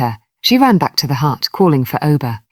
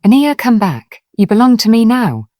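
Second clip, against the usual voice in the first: pleading; 6 semitones higher, 4 dB louder than usual. Acted. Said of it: "not angry, but pleading".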